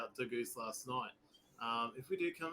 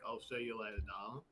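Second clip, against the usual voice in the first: flirty; 5 semitones lower, 5 dB quieter than usual. Acted. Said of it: "stop flirting".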